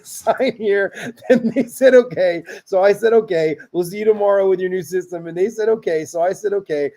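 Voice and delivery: one endless sentence, fighting laughter; no punctuation. Shown as a demonstration. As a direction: plough through without sentence breaks, amused. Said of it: "read it with no punctuation".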